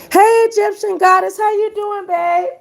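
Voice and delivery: high, bright hello to a viewer; delighted high greeting to a friend; excited greeting. Real, not acted.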